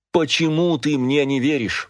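high, despairing question. A narrator's reading. Father despairs at his son's distrust. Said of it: "в отчаянии спросил отец".

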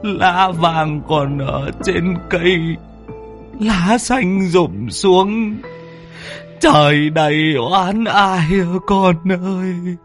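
high, slow sung-out mourning cry; keen a father's farewell, drawn out; grieving lament. A narrator's reading. Father laments his son leaving on the hearse, high and slow. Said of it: "ông lẩm bẩm".

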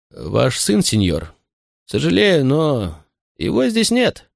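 keen to please his master; eager servant voice. Acted. Butler voice.

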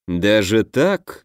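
slow, menacing smirk; sinister smirk. Acted. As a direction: let a nasty little smirk through. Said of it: "нехорошо усмехнулся Самди".

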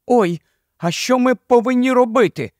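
put-on a worried young girl asking what to do; Jill asking. A narrator's reading. Jill asks her friends what they must do, worried girl voice. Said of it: "запитала Джил".

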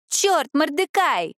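high, drawn-out yell of a name; shouting. A narrator's reading. Daisy yells at Mordecai from the kitchen, drawn-out shout. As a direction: yell it slowly down the hall. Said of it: "закричала Дейзи".

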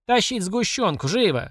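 slow, high order; commanding shout. Acted. Mamasha shouts for the condensed milk, high. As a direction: bark the order. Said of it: "закричала мамаша".

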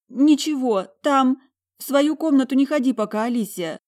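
high, loud tearful wail; choking on sobs. A narrator's reading. Talia warning her sister off the room, sobbing. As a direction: force the words out through acted sobs. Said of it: "Давясь рыданиями, выговорила она".

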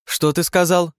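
can't believe what he just said; outraged disbelief. Acted. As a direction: daughter outraged by father's request. Outraged reply to father.

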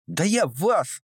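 a very high, raging threat; furious lunge. A narrator's reading. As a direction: threaten them mid-attack. Girl lunges at guards with fists. (очень высокий яростный возглас)

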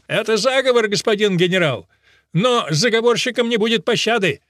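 high, loud pompous declaration; officer shouting about a plot; indignant outburst. Acted. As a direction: proclaim it to the general with outrage. Officer declaring conspiracy to general.

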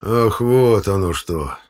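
slow, drawn-out, loud; ominous realization. Acted. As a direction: let it sink in, drawing out the words. Chairman grasps the gossip, ominously. (протяжно, со значением)

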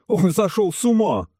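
high-pitched indignant outburst; outraged exclamation. A narrator's reading. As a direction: burst in, scandalized, pitch shooting up. Colonel interrupts in outrage.

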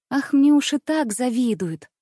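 plain reading voice

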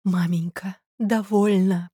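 plain reading voice

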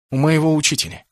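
instant reply. A narrator's reading. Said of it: "мгновенно ответил Кеннет".

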